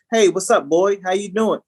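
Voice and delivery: lightly mock the boss's hello; imitated white boss. Mimicking how the boss's greeting really lands, mock-chummy. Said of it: "it's almost like him saying".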